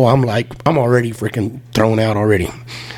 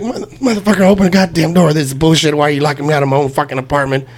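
mock drunken rant. Drunk man yelling at roommate through door, mock indignant. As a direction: act out demanding to be let in. Retold shouting at locked door.

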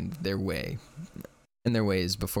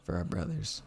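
mock solemn; 3 semitones lower than usual. Mock moment of silence.

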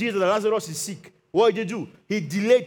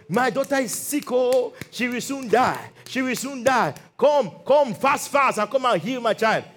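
raised-pitch father's plea, acted out; urgent pleading; 5 semitones higher than usual. Jairus begs Jesus for his sick daughter, urgent pleading. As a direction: beg for help in repeated, urgent bursts.

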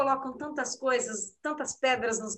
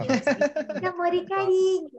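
put-on childish voice; 4 semitones higher than usual. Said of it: "Eu ainda tô na criancinha".

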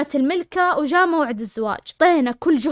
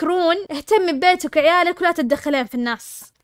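sassy comeback; 3 semitones higher than usual. Pretend. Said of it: "قولي لها تقول لك".

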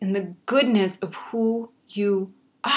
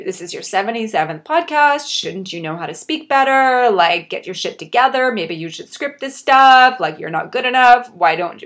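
acted inner critic, louder and insistent; mock self-scolding; 6 dB louder than usual. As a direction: scold yourself as a harsh inner voice, raising the volume. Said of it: "I could have taken the action of".

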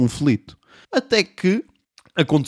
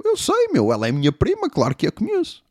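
high, sing-song mock voice; mocking imitation; 9 semitones higher than usual. Comedian mocks the teen to his face, high mock. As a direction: ham it up, mocking the kid. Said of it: "E eu".

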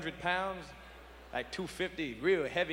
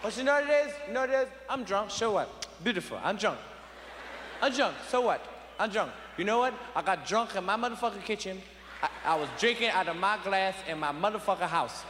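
put-on drunk father claiming the house; 4 semitones higher than usual. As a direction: rant like a drunk father at the cookout. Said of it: "My father stand up ... and say".

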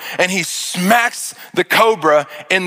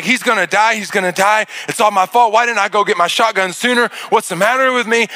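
panicked; 3 semitones higher than usual. Retold or imitated. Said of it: "And I'm panicked".

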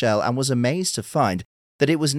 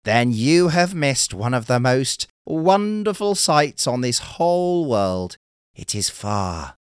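turtle voice; 3 semitones higher than usual. Acted. Turtle offers to guide the fisherman, slow and grand. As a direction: draw it out like a proud guide.

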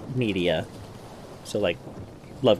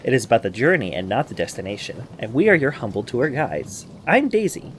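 podcast host intro. Acted.

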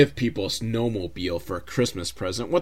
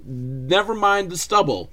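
a bad disguise trying to sound female; man faking a woman; 8 semitones higher than usual. Tom Arnold in a wig fooling the thugs, hammed-up high voice. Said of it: "he's like".

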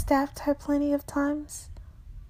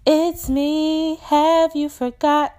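higher, drawn-out plea to be remembered; crying out; 5 semitones higher, 3 dB louder than usual. Acted. Strange voice at the door to the narrator, crying out. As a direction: cry it out, raised and pleading. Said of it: "She cries out".

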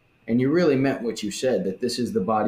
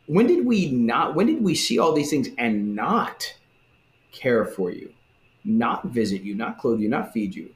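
mild indignant protest. Retold or imitated. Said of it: "they kinda say it like".

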